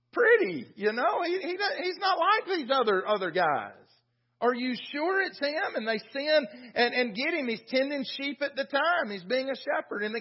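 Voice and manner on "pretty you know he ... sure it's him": higher-pitched mocking father, lightly acted; mock belittling. Father dismisses his youngest son to the prophet, lightly mocking.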